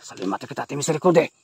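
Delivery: low eerie voice reading the spirit's line; creepy voice. Acted. Reading the horror game's line in a low eerie voice. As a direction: growl it low like a ghost.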